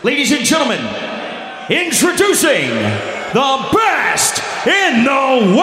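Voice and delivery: announcer call, dragged out on world; ring announcer intro. Retold or imitated. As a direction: announce him to the arena. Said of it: "That's not, that's not good enough".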